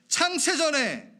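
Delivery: high, loud, drawn-out 창세전에; emphatic proclamation. Real, not acted. Preacher rereading the verse to the congregation, emphatic proclamation.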